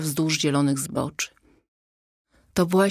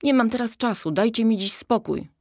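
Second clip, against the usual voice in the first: higher, hurried brush-off; calling back; 6 semitones higher than usual. A narrator's reading. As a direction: call it back impatiently on the move. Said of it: "odkrzyknęła Zosia".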